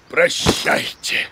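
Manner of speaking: dramatic farewell. Acted.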